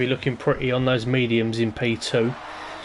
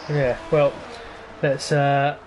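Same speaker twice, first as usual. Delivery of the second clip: stuttering; slower than usual. Real, not acted. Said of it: "sort of stuttering this".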